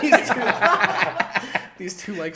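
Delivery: high, loud, laughing too hard to continue; cracking up. Real, not acted. Describing a rapper's sidekicks to friends, cracking up. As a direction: try to get it out through laughter. Cracking up while telling the bit.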